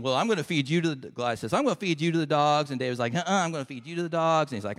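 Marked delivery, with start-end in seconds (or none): 0.0-1.1 quick mock threat; trash talking. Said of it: "this little trash talking". 1.5-2.7 quick mock threat; trash talking. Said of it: "this little trash talking". 3.1-4.5 quick, raised-pitch mock comeback; trash talking. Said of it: "this little trash talking".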